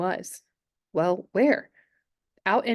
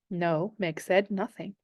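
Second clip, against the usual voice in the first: heavy with misery; slower than usual. Acted. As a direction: let the word sink in misery. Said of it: "Her voice was heavy with misery".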